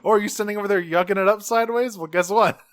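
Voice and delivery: hammed-up mocking villain; gloating villain catching the snickering traitor; gloating Megatron.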